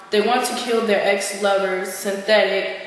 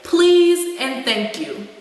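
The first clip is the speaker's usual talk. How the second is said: pointed scolding; 4 semitones higher, slower than usual. Acted. Scolding dismissal of the celebrity.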